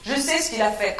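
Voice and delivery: ordinary delivery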